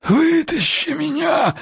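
high, slow, breathless begging; gasping plea. A narrator's reading. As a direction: choke out a desperate plea. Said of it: "задохнулся он".

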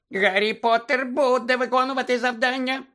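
Dobby the house-elf squeaking at Harry; squeaky house-elf. Acted. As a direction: squeak it like an anxious little elf. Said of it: "пропищав ельф".

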